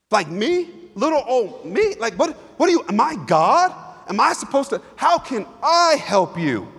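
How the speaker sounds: incredulous, put-upon protest; overwhelmed. Shown as a demonstration. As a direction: sound swamped and unsure. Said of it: "one of frustration".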